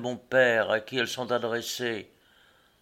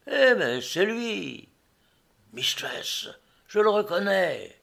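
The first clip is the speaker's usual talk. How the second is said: higher, slower exclamation of recognition; excited recognition; 7 semitones higher, slower than usual. Acted. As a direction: call out on spotting someone familiar. Narrator recognises the late traveller.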